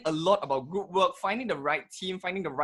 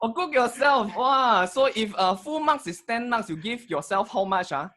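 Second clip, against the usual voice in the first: Singlish; 3 semitones higher than usual. Pretend. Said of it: "let's exchange a few sentences in Singlish".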